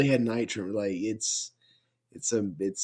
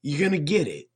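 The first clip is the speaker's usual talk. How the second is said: heated; 5 semitones higher, 4 dB louder than usual. Real, not acted. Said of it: "I'm sorry I got loud with you".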